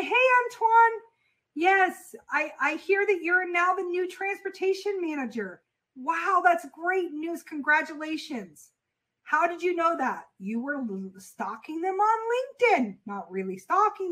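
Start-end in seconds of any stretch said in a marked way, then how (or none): 0.0-10.3 a bright, upbeat demo of a warm cold call opener; natural friendly pitch. Shown as a demonstration. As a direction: greet him like a pleased acquaintance. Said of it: "just drop the sales voice altogether".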